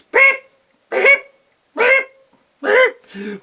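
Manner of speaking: very high, loud, slow strained peeps; clumsy eagle peeps. Acted. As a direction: squawk each beep like a big bird trying. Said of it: "it sounded like this".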